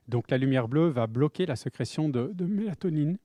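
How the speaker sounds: muffled through a face mask. Real, not acted. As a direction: speak as if a face mask covers your mouth. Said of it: "pas facile de parler avec un masque".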